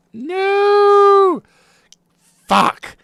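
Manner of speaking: loud, high cry of frustration; frustrated shout. Real, not acted. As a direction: yell it out in real annoyance. Building fails, frustrated outburst.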